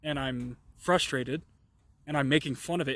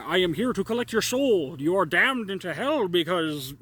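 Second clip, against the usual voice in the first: mocking demon voice; 3 semitones higher, 3 dB louder than usual. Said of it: "he didn't say it in this cadence".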